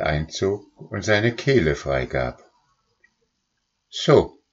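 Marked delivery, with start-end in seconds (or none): 3.9-4.4 cat speaking. A narrator's reading. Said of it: "sagte sie".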